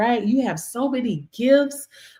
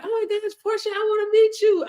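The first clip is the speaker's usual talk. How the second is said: a much higher squealing fan voice; gushing fan; 13 semitones higher than usual. Retold or imitated. Host imitates fans gushing over meeting her. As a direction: gush like an excited admirer. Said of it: "That's why people like".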